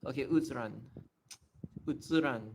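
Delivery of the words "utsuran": "Utsuran" with a tsu in the middle; Japanese-style pronunciation. Shown as a demonstration. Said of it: "Utsuran sounds very weird".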